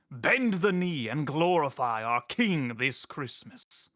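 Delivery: booming imperial sermon, slow and grand; Rico impression. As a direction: declare it like an emperor preaching to his subjects. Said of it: "do it in Rico voice justice".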